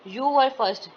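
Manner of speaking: "were" pitched high, then falling through "first"; surprised rise and fall on "You were first"; rise-fall of surprise. Shown as a demonstration. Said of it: "ये भी एक surprise है".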